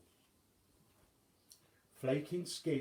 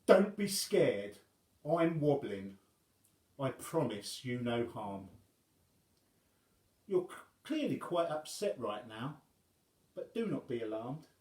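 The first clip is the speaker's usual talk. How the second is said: reassuring giant; 2 semitones higher, 6 dB louder than usual. Acted. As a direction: coax the boy gently. Wobbling comforting the crying boy.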